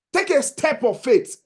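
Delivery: slow, deliberate push, each word weighed; slow urging. Real, not acted. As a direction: spell it out slowly so it sinks in. Urging listeners to register.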